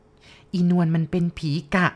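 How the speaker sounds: very slow, deliberate reveal; aunt revealing a secret. Acted. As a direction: let each word land slowly. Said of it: "ป้าแย้มบอก".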